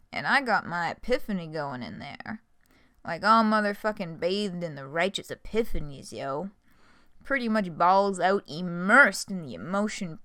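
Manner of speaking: lightly voiced confessing clown, bursts of loud emphasis; a hammed-up remorseful juggalo monologue; Gamzee voice. Clown pouring out his redemption speech, mildly voiced. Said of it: "a good Gamzee voice".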